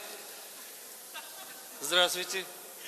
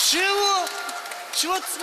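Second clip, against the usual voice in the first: shouting; 9 semitones higher than usual. Acted. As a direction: yell it out in surprise. Officer shouting in surprise.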